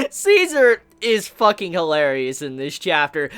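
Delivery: talking through a real laugh. Real, not acted. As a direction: laugh while you praise the scene. Laughing about funny chapter.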